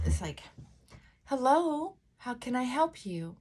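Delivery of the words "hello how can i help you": a little higher, still genuine; slightly high phone voice. Shown as a demonstration. Coach showing a gently raised service voice. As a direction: answer the phone sweetly but real. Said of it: "it's like this".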